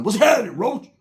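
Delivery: a light put-on white-guy voice, upbeat; mock-cool white dude greeting; little white voice. To Roach, showing off, light white-guy voice. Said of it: "I even got my little white voice on".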